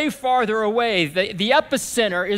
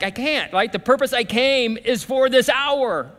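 higher, insistent retold protest; mildly impassioned, pitched up; wrestling resolve; 5 semitones higher, 3 dB louder than usual. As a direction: voice an inner struggle turning to resolve. Voices Jesus wrestling, then resolving.

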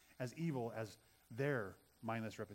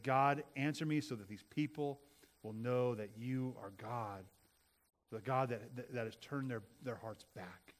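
humble prayer. Acted. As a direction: pray it with humility. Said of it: "with the attitude and posture of humility".

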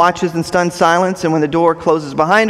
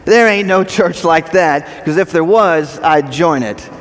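mocking. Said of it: "in a mocking way says".

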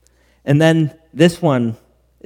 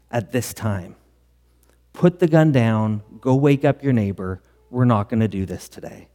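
calm, measured retelling, slowing on key phrases. Retold or imitated. Pastor talking a suicidal friend down by phone, very calm. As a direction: talk them down calmly and deliberately. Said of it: "The pastor very calmly asked".

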